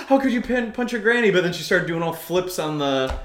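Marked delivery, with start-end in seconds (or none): 0.1-1.3 high, shocked mock voice; shocked bystander. Imitating shocked onlookers, higher and louder. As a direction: gasp out the outrage. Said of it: "everybody was like".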